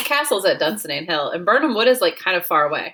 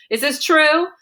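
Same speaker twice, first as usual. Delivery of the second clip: shocked question; 9 semitones higher, 4 dB louder than usual. Retold or imitated. Macbeth horrified at kings vision.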